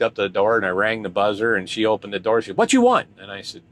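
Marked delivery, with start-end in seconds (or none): 2.6-3.1 mock Asian accent.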